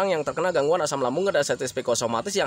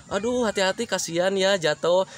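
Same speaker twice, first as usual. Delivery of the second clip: sympathise kindly, drawing out the last words; sincere pity for someone who fell; gentle low-tone sympathy. Shown as a demonstration. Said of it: "Itu nadanya rendah".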